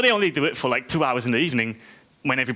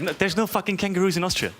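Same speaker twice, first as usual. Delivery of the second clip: higher-pitched, exasperated correction; mock exasperation; 5 semitones higher than usual. Austrian answering strangers who mix up countries, exasperated. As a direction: set them straight, mock-annoyed.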